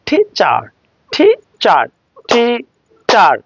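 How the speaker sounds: "টি চার" broken into two separate beats; teacher sounding out "টি চার" syllable by syllable; split into syllables. Shown as a demonstration. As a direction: say "টি", pause, then "চার", each its own sound. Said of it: "দুটি sound".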